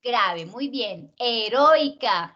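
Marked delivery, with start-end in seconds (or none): 1.2-2.3 "Heroica" very slow, leaning on "roi"; stress shown. Shown as a demonstration. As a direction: draw out "Heroica" with "roi" as one long stressed beat. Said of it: "Acabamos de decir cómo es heroica". («Heroica» muy lento, con la fuerza en «roi»)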